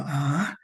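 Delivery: "A" larga que empieza baja y sube; tono ascendente. Shown as a demonstration. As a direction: alarga la "A" subiendo de grave a agudo. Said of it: "ese es un tono ascendente que empieza bajo y". ("A" con tono ascendente alargado)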